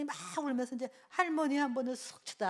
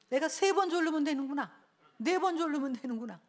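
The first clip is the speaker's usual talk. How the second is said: mock child's gloat; 4 semitones higher, 4 dB louder than usual. Child realizing nagging works.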